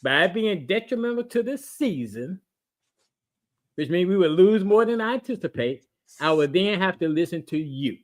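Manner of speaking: slow, emphatic spelling out. Real, not acted. Explaining to the cohost for the third time, slow and deliberate. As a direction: say it phrase by phrase with pauses. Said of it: "let me say it a little bit slower".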